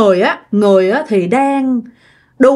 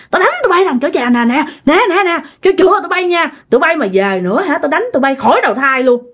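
higher, fast, scolding the spirits; scolding ghosts; 5 semitones higher than usual. Retold or imitated. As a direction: chase them off with a broom, voice raised high. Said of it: "bà nội nói hả".

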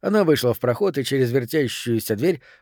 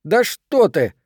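higher, heated comeback; indignant, pitch raised; defiant retort; 5 semitones higher, 4 dB louder, slower than usual. Acted. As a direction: scoff back at the threat.

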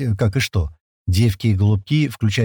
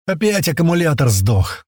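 higher-pitched mild shout; calling out; 5 semitones higher than usual. Acted. Миха calls from the jeep about the battery, shouting. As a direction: call out a complaint from a car. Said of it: "громко крикнул с первого джипа".

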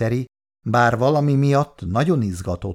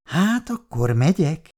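quickly, excited; 5 semitones higher than usual. Acted. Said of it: "mondta gyorsan, most már izgatottan Szabóné".

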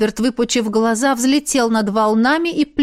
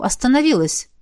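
usual speaking voice

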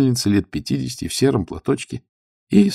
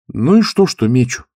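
eager retort; 6 semitones higher, 7 dB louder than usual. Acted. Youth answers stoker eagerly.

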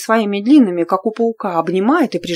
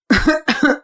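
coughing fit; 7 semitones higher than usual. Acted. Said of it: "я таки прокашляюсь".

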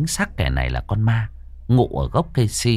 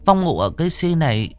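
pleading earnestly; 8 semitones higher than usual. Acted. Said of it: "thành tâm xin xỏ hết lời".

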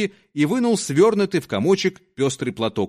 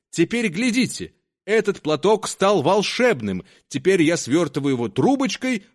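lightly raised showman voice; conjuror's patter; 4 semitones higher than usual. Acted. Conjuror to the crowd while burning the handkerchief, proud patter. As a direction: play up the trick like a fairground conjuror.

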